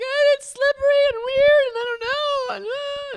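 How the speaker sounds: high wailing whine, mimicked; imitated crying child. Mother imitating her crying son at the cove, wailing. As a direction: whimper and wail like an upset kid. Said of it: "My son is crying".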